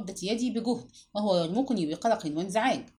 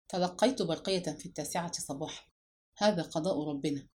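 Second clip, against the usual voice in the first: softer, lower, heavy with grief; gloomy; 4 semitones lower, 6 dB quieter than usual. A narrator's reading. Brother tells of the telegram, gloomy and subdued. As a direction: let the sorrow weigh the words down. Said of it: "فقال مدحت في كآبة".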